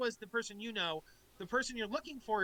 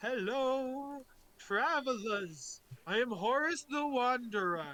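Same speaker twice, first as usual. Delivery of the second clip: put-on ghost voice. Voicing a ghost greeting the travelers: Horus ghost voice. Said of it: "and so he's like".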